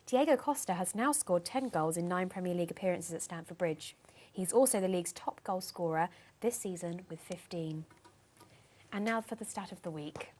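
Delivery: a lightly put-on posh newsreader read. Co-host reads the weekly stats in a mildly posh voice. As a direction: read it as if you were a very proper English announcer. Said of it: "Okay, do your posh voice".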